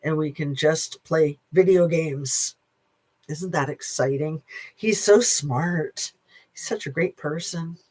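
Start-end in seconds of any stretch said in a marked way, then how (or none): 3.3-7.8 sarcastic. Acted. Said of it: "I mean, that's what he says".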